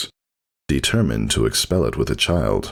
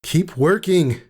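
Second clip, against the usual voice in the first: Whisper's voice; slower than usual. Acted. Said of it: "said Whisper".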